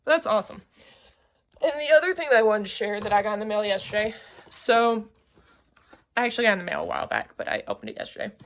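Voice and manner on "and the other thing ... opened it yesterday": jittery, rushing fast; too much caffeine. Real, not acted. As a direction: talk fast like you're over-caffeinated. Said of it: "this is jittery".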